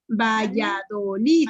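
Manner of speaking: "Valladolid" in slow syllables, LID stressed. Shown as a demonstration. Teacher quizzing pupils on the stress, "Valladolid" slowly split with LID stressed. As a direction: sound out "Valladolid" slowly, landing hard on LID. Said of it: "la pronuncien por sílabas despacito".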